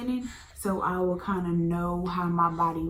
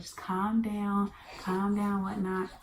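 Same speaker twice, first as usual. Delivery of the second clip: soothing friend; slower than usual. Retold or imitated. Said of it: "She's like".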